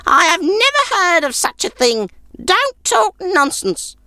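put-on old woman waving off the nonsense; scornful old woman. Old woman scoffs at stranger.

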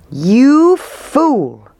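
high, loud accusing cry; angry cry. A narrator's reading. Townspeople turning on their mayor, angry cry. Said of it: "they cried".

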